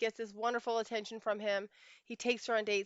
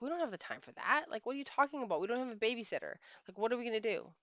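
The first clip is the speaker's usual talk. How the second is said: higher-pitched, incredulous brush-off; dismissive husband; 4 semitones higher, faster than usual. Retold or imitated. Husband rejecting wife's wish for dates, mock exasperation. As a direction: imitate an exasperated, dismissive spouse.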